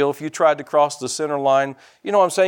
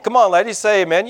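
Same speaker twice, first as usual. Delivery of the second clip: raised, higher-pitched exhortation; rousing call-out; 6 semitones higher, 4 dB louder, faster than usual. Real, not acted. Preacher rallies the ladies to say amen, rousing call. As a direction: urge the crowd to answer you. Calling on the women for amens.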